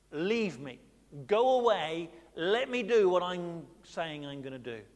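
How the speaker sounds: loud sharp dismissal; God sending Moses away; curt God. Retold or imitated.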